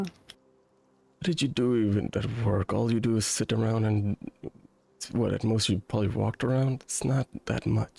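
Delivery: dismissive mother, nagging; scolding mother. Acted. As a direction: belittle her effort like a strict mom.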